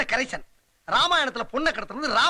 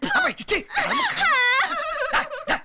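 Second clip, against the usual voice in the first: put-on much higher cooing baby-talk voice. Man coos at the crying girl like a baby, high baby talk. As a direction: coo at her like a toddler.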